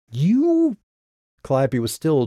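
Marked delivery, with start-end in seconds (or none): 0.1-0.8 high, loud exasperated outburst. Acted. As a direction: sputter it out in disbelief. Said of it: "in exasperation".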